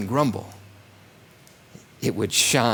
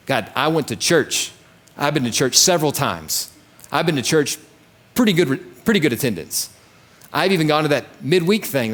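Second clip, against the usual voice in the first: entitled churchgoer; 4 semitones higher than usual. Retold or imitated. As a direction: play a smug churchgoer listing merits. Mock entitled churchgoer to God.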